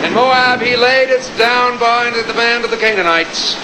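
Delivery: put-on pompous old-fashioned preacher prayer; mock biblical prophet. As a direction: intone it like a grand King James prayer. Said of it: "a perfect example of how your prayer should look and sound".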